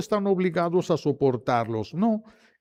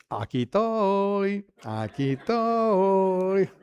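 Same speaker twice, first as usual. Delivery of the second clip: high, drawn-out singsong answer; mock little-boy voice; 5 semitones higher, slower than usual. Grown son giving in to his mother, childish singsong. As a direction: stretch it out slowly like a meek child.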